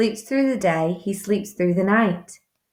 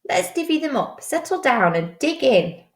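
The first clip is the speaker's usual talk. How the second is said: grinning badger voice; 6 semitones higher, faster than usual. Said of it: "Badger says with a grin".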